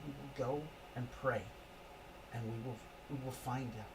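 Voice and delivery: calm, steady husband soothing his wife; husband reassuring wife. Acted. Husband calming his frantic wife about the grove. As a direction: settle her down, promise action.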